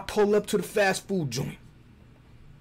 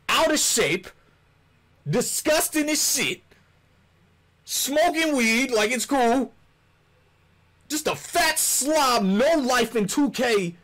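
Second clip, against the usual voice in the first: mock rant; 4 semitones higher, slower than usual. Mocking rant at a viewer.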